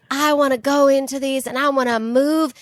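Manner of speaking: hint of a Southern accent, hammed up; lightly voiced Southern accent, retelling an audition. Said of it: "I used a Southern accent".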